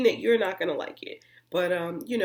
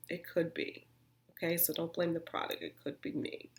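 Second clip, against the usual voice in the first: quiet aside; 9 dB quieter than usual. Real, not acted. Quiet self-blaming aside.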